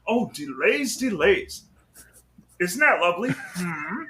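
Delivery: lightly voiced Marvin the Martian, fussy. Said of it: "then there's Marvin the Martian".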